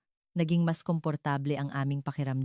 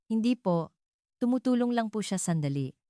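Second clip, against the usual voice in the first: higher-pitched, polite smiling reply; smiling explanation; 6 semitones higher than usual. A narrator's reading. Shop owner explains the helper to a customer, smiling. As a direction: explain politely with a light smile. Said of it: "Nakangiti kong paliwanag".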